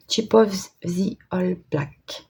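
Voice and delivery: slow, careful French-accented English, reading the name off her own note. Real, not acted. Crafter rereads the pot name from her note, slow French-accented English. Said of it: "mon superbe anglais avec l'accent du Nord".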